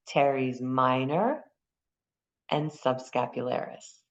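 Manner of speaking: Teres minor drawn out slowly, each syllable clear; slow careful naming. Shown as a demonstration. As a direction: spell out the muscle names slowly for the class. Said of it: "I hear you".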